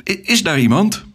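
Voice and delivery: high-pitched, hesitant call; shrill call. A narrator's reading. Alex alone in the greenhouse calls for anyone, shrill. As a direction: call out shrilly, stumbling at the start. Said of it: "Het schrille geluid galmde".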